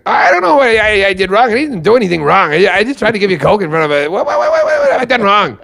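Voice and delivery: high, pleading, rising to a squeak; whiny Brian. Retold or imitated. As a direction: plead innocence in a high wounded voice. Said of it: "Brian goes".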